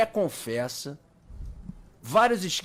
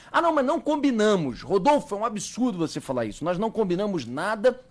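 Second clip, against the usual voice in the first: indignant denial; 5 semitones higher, 3 dB louder than usual. Pretend. Mock denial by OAB members.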